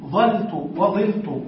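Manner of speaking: ظلت slowly, ظَلت with a then ظِلت with i; fatha then kasra. Shown as a demonstration. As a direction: stretch out ظلت وظلت, first open then broken. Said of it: "يجوز بفتح الفاء وكسر الفاء". (نطق بطيء بفتح الفاء ثم كسرها)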